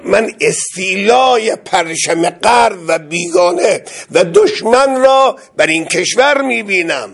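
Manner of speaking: a hint of the writer's solemn warning; quoting Jalal Al-e Ahmad. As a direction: proclaim the warning, slow at first. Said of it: "گفت که".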